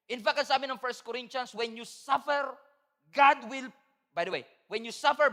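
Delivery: animated Tagalog sermon delivery; lively pastor preaching. Acted. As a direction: preach it with energy to the church.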